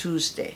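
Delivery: Tuesday slowly as "TOOZ-day"; slow Tuesday, plain "too", no glide. Shown as a demonstration. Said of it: "वो टू करके बात करते हैं". ("टू" वाला Tuesday, धीमे)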